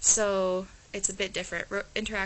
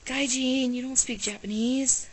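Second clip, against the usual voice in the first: surprised classmates; 4 semitones higher, 4 dB louder, slower than usual. Retold or imitated. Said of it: "they were like".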